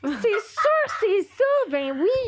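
high, teary voice breaking; emotional crying. Real, not acted. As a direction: near tears, laughing through it. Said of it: "Je vais pleurer".

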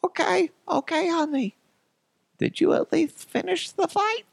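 very high falsetto mother; hammed-up fussing mom voice; mock doting mom. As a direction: soothe and question in squeaky falsetto. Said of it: "and my mom's like".

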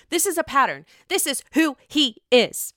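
quoting Ariana. Retold or imitated. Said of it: "as Ariana would say".

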